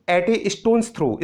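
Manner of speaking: "at a stone's throw" drawn out very slowly; very slow demo. Shown as a demonstration. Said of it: "एक और नया word है देखिए". (बहुत धीमे उच्चारण)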